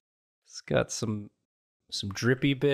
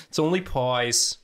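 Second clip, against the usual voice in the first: put-on Long Island accent. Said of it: "thickest Long Island accent".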